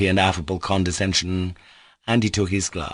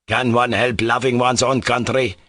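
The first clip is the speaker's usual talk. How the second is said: furious shout; 4 semitones higher, 3 dB louder than usual. Acted. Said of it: "he shouted".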